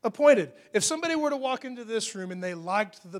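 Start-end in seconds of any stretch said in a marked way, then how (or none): 0.0-0.5 a louder, lightly affected period-drama "Appointed"; lightly hammed-up fancy-movie diction; fancy film voice. Shown as a demonstration. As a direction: say "Appointed" like a costume-drama gentleman. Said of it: "They probably talk like this in that fancy film".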